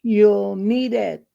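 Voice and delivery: measured, deliberate verse reading; poem recital. Acted. Reader sharing an uplifting poem for Black History Month, measured recital. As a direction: recite it line by line, with pauses.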